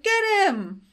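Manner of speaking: high, drawn-out chase call; mock pursuit cry. Rare hunters chasing Tristan and Serenity, mock pursuit cry. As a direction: call it out like a henchman giving chase.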